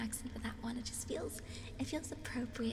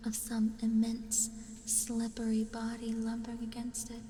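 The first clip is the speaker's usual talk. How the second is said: horror story narration. A narrator's reading. Streamer reading Lovecraft's Dagon to viewers, dramatic narration. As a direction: narrate it with deliberate pauses and weighted phrases.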